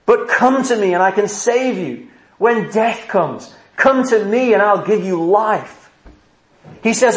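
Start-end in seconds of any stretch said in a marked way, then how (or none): 0.0-5.9 raised, higher-pitched preaching appeal; crying out. Acted. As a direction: call sinners in with urgency, pitch held high. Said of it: "Do you hear him crying out saying".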